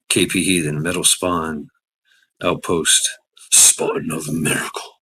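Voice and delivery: mysterious whispered name. Acted. Reading channel names in whisper.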